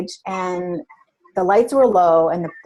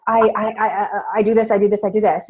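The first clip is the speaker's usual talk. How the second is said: nervous stammer; faster than usual. Retold or imitated. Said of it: "her fears came up because she was being pushed".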